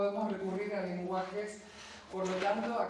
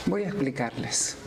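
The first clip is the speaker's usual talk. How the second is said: Clytemnestra addressing her judges; 2 semitones lower, 10 dB louder than usual. Acted. Accused murderess addresses her judges, theatrical and deliberate.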